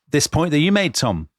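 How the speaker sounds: pleading, voice high and strained; begging an ally, almost crying; near tears. Retold or imitated. Ambassador begging the Foreign Secretary, near tears. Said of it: "he is virtually in tears".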